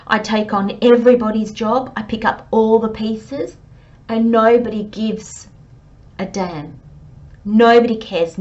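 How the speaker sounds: blowing your top. Retold or imitated. Scorpio finally snapping at everyone, mild mock outburst. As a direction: vent like someone fed up with carrying everyone. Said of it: "you suddenly blowing your top".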